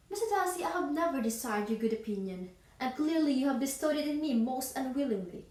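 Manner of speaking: indignant rejection of a suitor, opening high; Elizabeth Bennet. Acted. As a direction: cut down an unwanted proposal with force. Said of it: "Elizabeth Bennet rejected Darcy's proposal".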